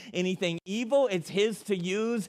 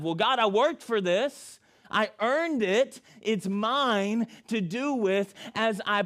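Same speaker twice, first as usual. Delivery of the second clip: greedy self-justifying; 4 semitones higher than usual. Acted. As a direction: insist to God it's yours. Preacher voices greedy heart.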